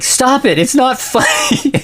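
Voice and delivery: high squeaky plea breaking into laughter; laughing through Kurt's plea. Retold or imitated. Podcaster voicing Kurt begging Jan to stop, laughing through it. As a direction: try to voice Kurt but crack up laughing.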